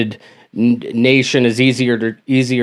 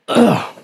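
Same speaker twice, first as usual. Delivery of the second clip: pained groan; 6 semitones higher than usual. Real, not acted.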